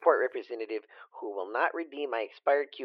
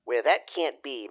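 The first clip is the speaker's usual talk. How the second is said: whispered; slower than usual. Acted. Breathy start back in character.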